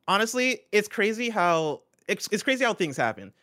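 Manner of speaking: talking through a costume mask; muffled under a helmet; muffled behind mask. Real, not acted. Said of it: "Why does the speaker sound muffled".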